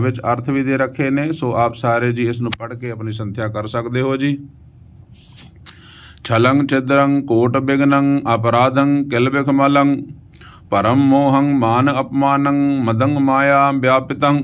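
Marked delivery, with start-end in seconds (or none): 6.2-14.4 slow, sustained Gurbani reading; measured verse chant on an even pitch; scripture recitation. Acted. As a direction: recite with long drawn vowels.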